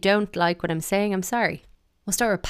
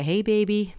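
mock American flirt; 4 semitones higher, 3 dB louder than usual.

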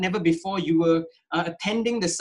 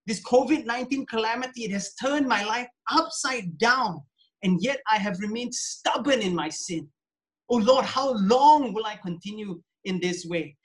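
lament prayer; 2 semitones higher than usual. Shown as a demonstration. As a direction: pray aloud as a model for the church. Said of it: "Cry out to him".

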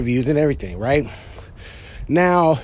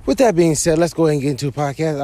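out of breath; faster than usual. Real, not acted. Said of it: "I'm sorry I'm short of breath".

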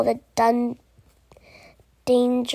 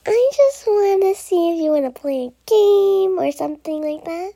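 cheerful little unicorn; 3 semitones higher than usual. Acted. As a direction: invite hopefully, a hint of little unicorn. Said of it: "a little unicorn".

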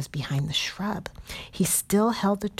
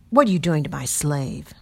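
angry; 6 dB louder than usual. Acted. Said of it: "an angry voice called".

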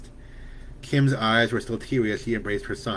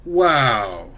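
squealing with delight; 7 dB louder than usual. A narrator's reading. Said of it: "squealed with delight".

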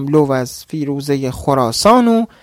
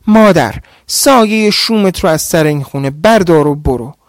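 threatening; 2 semitones higher than usual. Acted. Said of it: "تهدید کنان گفت".

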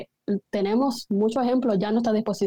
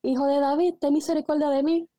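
higher, louder plea for mercy; louder retold cry; 4 semitones higher than usual. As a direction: call out harder to Jesus. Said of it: "con más fuerza él gritaba". (mendigo ciego gritando con más fuerza, más alto)

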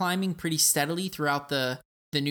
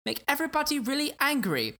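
much higher, put-on Austrian Arnold accent; 10 semitones higher than usual. Host jokes about doing the episode in a higher Austrian Arnold accent. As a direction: hold a playful Austrian accent all through. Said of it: "with this accent".

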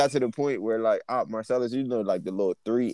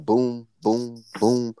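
even, unvarying booms; imitated constant snore; much slower than usual. Roommate's relentless snoring retold to friends, imitated as steady booms. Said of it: "wouldn't even go up and down".

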